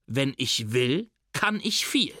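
coolly. Acted. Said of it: "erwidert Oma Ella darauf nur kühl".

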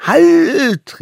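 high, loud sharp cry; shouted halt. Acted. Little hunter stops the mammoth, shouting high. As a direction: stop him with a sudden yell. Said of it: "rief da der Allerkleinste".

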